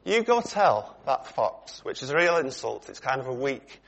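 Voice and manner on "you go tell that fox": slow, deliberate and firm, a little higher. Retold or imitated. Preacher voicing Jesus' blunt reply to Herod, firm. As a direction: lay down the words plainly, no softening. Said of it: "in no uncertain terms".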